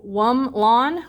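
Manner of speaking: WUM, then LON, with a gap between; syllable by syllable. Shown as a demonstration. Teacher counting syllables in a made-up word, syllable by syllable. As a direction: say "wum lon" slowly in two separate beats. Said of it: "That sounds like two syllables".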